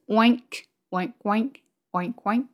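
oinks as spoken words; imitated pig oink. Shown as a demonstration. Teacher showing how English pigs sound, imitated oinks. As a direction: say little pig oinks in pairs. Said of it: "pigs sound different".

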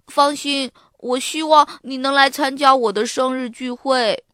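lightly voiced boy asking a friend to come; 邀请同学. A narrator's reading. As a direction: invite earnestly in a child character's voice. Boy inviting classmate, fuller take. (用孩子的口吻诚恳邀请)

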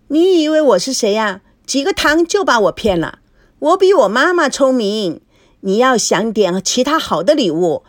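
put-on high child voice, smug and know-it-all; a clever kid bargaining for a better gift; little girl sassing an adult, high-pitched; precocious little girl. Feifei lectures Liu Ming.

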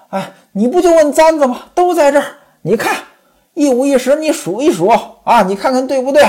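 high, indignant woman's voice; aggrieved protest. Acted. Pan Jinlian cursing the slanderers to Ximen Qing, high and indignant. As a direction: bristle at the slander. Wife curses slanderers, shows hairpins.

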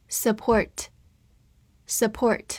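very slow, drawn-out repeated word; slow review drill. Shown as a demonstration. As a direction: stretch each word for learners. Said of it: "复习一下今天学过的单词". (慢速复习单词)

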